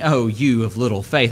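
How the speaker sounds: mildly condescending "Oh, you of little faith"; a preacher imitating a condescending rebuke; talking down. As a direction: scold them from above, lightly. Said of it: "he's talking down to a person".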